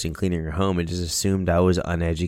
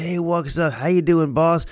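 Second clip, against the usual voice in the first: much higher, bright mock-cheery hello; chirpy greeting; 9 semitones higher than usual. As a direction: breeze in all smiles to the boss. Cheery greeting, about to be scolded.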